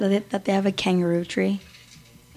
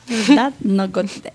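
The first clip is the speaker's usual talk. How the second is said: put-on teasing Spanish-accented English; light put-on Spanish accent; mimicked Spanish accent. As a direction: echo the line in mock Spanish accent. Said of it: "like, a Spanish accent is".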